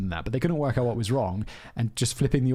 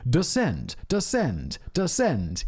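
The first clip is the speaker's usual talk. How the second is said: robotic cockpit voice; 2 semitones higher, much slower than usual. Retold or imitated. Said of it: "it'll do that cool voice".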